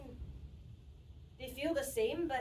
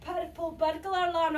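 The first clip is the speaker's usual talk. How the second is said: "Purple burglar alarm" with rolled Scottish r's; Scottish accent; 5 dB louder than usual. Shown as a demonstration. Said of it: "Can you pronounce it?".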